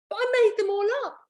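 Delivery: high, fast panicked protest; boy protesting. Acted. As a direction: blurt it out nervously. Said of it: "boy protests".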